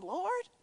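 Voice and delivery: soft, rising, unsure Lord; said like a question. Retold or imitated. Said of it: "I think he said it like a question".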